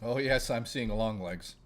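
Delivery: slow, through a mouthful; words round a bite of food; chewing while talking. Real, not acted. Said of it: "I'm chewing".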